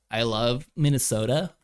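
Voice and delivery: put-on Minnesota accent. Streamer playing along as a Minnesotan, put-on Minnesota accent. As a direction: pretend to be a Minnesota local by accent. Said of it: "Max is clearly from Minnesota".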